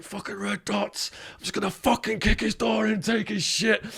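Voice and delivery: imitating Wild Man. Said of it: "Wildman's like".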